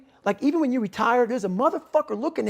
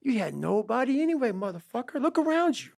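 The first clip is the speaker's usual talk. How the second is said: hushed inner voice, trailing off; quiet private self-talk; muttered self-talk; 3 semitones higher, 7 dB quieter than usual. Shown as a demonstration. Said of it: "see how I'm talking myself right now".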